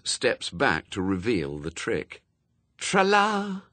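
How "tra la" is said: high, showy stage trill; theatrical flourish. A narrator's reading. Anathema revealing the trick, theatrical. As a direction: present it like a conjurer's assistant. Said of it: "posed theatrically".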